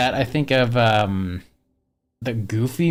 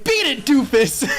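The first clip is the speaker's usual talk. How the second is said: higher put-on cartoon bully voice; imitating Pete; 10 semitones higher than usual. Quoting Pete to viewers in a higher cartoon bully voice. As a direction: brush him off like a cartoon bully. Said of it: "And he's like".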